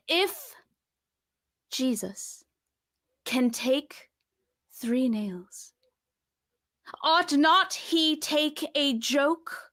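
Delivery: slow, grand stage pronouncement with long pauses; medieval morality play. Pretend. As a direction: declaim it like a pious mystery-play actor. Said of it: "the over-the-top theatricality of a medieval morality play".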